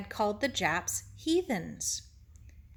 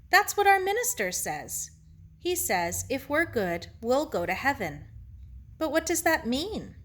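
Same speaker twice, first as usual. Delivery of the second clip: higher, lightly voiced child; questioning Sarah; 5 semitones higher than usual. Sarah questions Ito about heaven, puzzled and higher. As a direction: press the question, pitch lifting at start and end.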